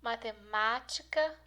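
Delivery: "matemática" drawn out on MÁ; slow "matemática", leaning on the syllable MÁ; stress on MÁ. Shown as a demonstration. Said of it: "são as sílabas mais forte". ("matemática" devagar, com ênfase em MÁ)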